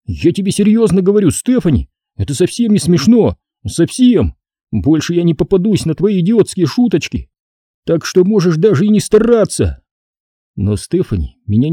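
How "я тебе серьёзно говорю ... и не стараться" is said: put-on raised, agitated boy's voice; boy fuming. A narrator's reading. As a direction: tell her off, upset. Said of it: "Я действительно распсиховался". (мальчик злится)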